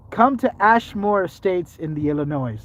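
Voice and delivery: slow, lingering mock Irish invitation; put-on Irish accent. Inviting folk to Ashmore Estates, put-on Irish accent. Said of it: "I still feel like I have the accent".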